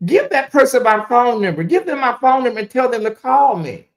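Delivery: urging the friend to pass on the number. Real, not acted. Instructs friend over phone.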